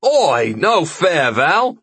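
loud, high-pitched objection; shouted protest. Acted. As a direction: holler that it's unfair. Friend joins the shouted protest.

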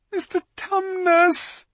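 high, loud, drawn-out call; bawled. A narrator's reading. Lucy shaking the fawn, bawling his name. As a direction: bawl it in his ear. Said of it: "bawled Lucy in his ear".

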